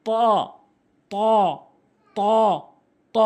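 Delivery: "ত" heavy and held, tongue tip at tooth roots; correct pronunciation. Shown as a demonstration. Teacher models the Arabic letter, correct heavy "ত". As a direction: give "ত" a full, longer vowel. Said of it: "same উচ্চারণ".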